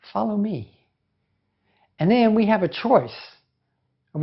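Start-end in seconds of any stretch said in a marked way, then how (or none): 0.1-0.8 soft, calm invitation; calmly. Retold or imitated. Jesus calmly inviting us to follow him, soft. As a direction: gently invite them to follow. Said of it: "Jesus very calmly comes to us".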